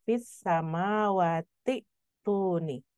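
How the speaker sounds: "Fis samawati tuni" slow, with a brief catch after samawati; joined reading demo. Shown as a demonstration. Teacher showing the connected reading, slow "samawati tuni" with the hamzah sounded. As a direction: draw out samawati, stop short on ti, then long "tuni". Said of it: "tetap dibaca sama seperti penulisannya".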